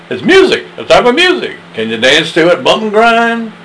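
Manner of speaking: lightly voiced child; high childish voice. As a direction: chirp it like a kid. High voice in a dialogue.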